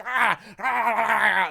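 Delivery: imitated Chucky attack cry; frightening yell. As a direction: mimic the doll's scary cry. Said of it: "He's like".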